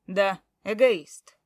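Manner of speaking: loud, slow, owning it; loud admission. Acted. Husband admitting selfishness to his wife, loud and slow. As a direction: admit it defiantly.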